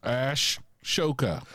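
Ashoka said as "Ash Shoka", slow with a stressed Ash; "Ash Shoka", split into two slow parts. Shown as a demonstration. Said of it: "No, Ash, Ashoka".

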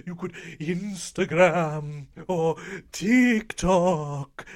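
slow, spooky, drawn-out host; lightly voiced horror host. Spooky voice plugging Twitter.

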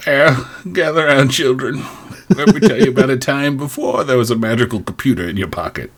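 lightly voiced old-timer telling tales; old-timer storyteller. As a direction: gather the kids round like a grandpa. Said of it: "What's a pager, John?".

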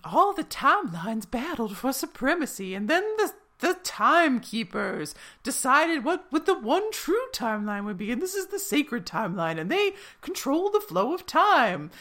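high Southern storytelling voice; Southern accent. Retold or imitated. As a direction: narrate in a Southern twang. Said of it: "a Southern accent".

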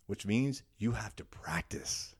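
breathy whispered punchline. Real, not acted. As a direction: drop to a whisper to drive it home. Emphatic closing line, whispered.

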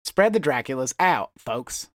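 folksy campaign-speech delivery; mock senator addressing the folks; North Carolina senator. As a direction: play a stumping small-state politician. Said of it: "a senator from, like, North Carolina".

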